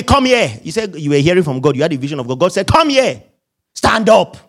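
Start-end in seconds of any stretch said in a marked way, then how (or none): 0.0-0.6 mock brusque order, higher pitched; rude command. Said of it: "God is not rude". 2.7-4.4 mock bossy order, higher pitched; rude command. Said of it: "God is not rude".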